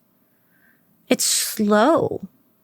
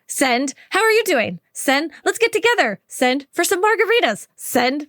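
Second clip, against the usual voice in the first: bright rapid-fire texts at a much higher pitch; excited texting bestie; 6 semitones higher than usual. Retold or imitated. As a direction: gush like you're firing off messages to your best friend. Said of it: "you're the type of person that's like".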